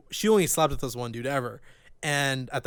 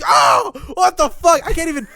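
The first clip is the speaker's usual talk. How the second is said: retold scream; 10 semitones higher, 5 dB louder than usual. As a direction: yelp it out like she was just hurt. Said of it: "she was just screaming".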